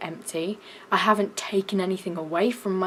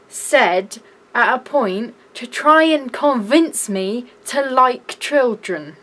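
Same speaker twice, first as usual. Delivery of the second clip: usual speaking voice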